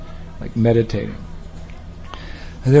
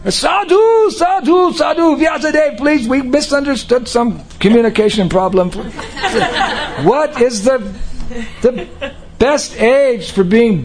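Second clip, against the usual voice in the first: much higher, desperate shouted plea; pleading shout; 11 semitones higher than usual. Retold or imitated. Sages begging Vyasadeva not to vanish, in high shouted panic. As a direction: cry out to him in a panic.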